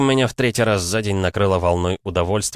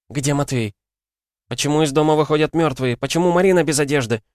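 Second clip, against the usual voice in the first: demanding crowd voice; 8 semitones higher than usual. Acted. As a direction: fire off angry demands.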